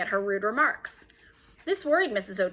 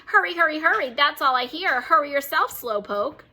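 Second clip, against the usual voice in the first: high, loud mocking squawk; squawking parrot; 5 semitones higher, 3 dB louder than usual. Parrot mocks Mary at breakfast, high and loud. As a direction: screech the taunt like a parrot. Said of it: "Penelope squawked".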